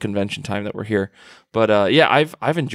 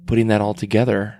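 soft-spoken David Mack; 2 semitones lower than usual. Retold or imitated. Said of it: "most soft-spoken person in the world".

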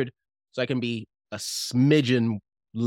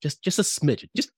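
gentle director notes. Retold or imitated. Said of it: "looks upon me and says".

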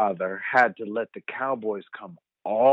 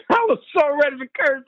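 higher, louder, breaking into laughter; laughing through words; 12 semitones higher, 6 dB louder than usual. Real, not acted. Son laughs recalling he nearly cursed at mom, words through laughter. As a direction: laugh it out at yourself.

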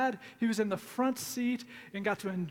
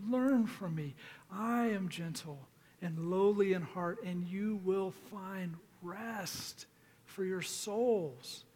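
slow, measured reading of a Bible passage; scripture reading; slower than usual. Acted. Pastor reading Jesus' words to the congregation, slow and measured. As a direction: let each phrase land, unhurried and gentle.

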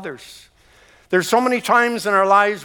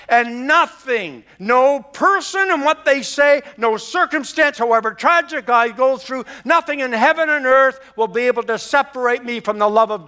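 rising preaching fervor; 6 semitones higher than usual. Real, not acted. Pastor proclaiming nothing can separate them, rising fervor. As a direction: build it up like a proclamation.

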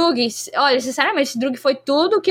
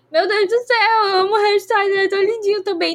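higher, excited fangirl gush; fangirl swooning; 6 semitones higher than usual. Retold or imitated. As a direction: gush like a smitten fan. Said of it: "eu fiquei tipo assim". (empolgação apaixonada de fã, mais aguda)

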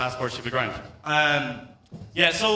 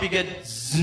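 mosquito buzz; slower than usual. Retold or imitated.

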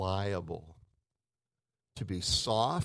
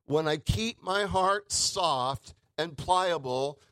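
rising cry; 9 semitones higher, 6 dB louder than usual. Real, not acted. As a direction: let it swell until it breaks. Preacher building to emotional peak.

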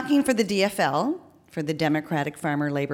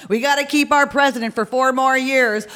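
higher, emphatic call from above; yelling down; 6 semitones higher, 4 dB louder than usual. Acted. Woman upstairs cheers on the president, yelling down. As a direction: call it down from a window. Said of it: "she yells down".

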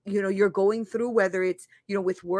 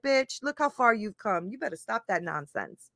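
adult self; 5 dB quieter than usual. Retold or imitated. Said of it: "that adult part of me is like".

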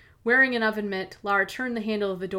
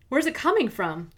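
urgent, higher, anxious; alarmed question; 5 semitones higher, 3 dB louder than usual. Acted. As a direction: demand it in a panic. Alarmed question about the smoke.

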